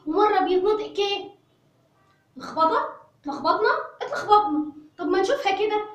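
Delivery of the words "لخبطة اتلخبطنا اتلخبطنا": laughing. Real, not acted. Teacher laughs at confusion.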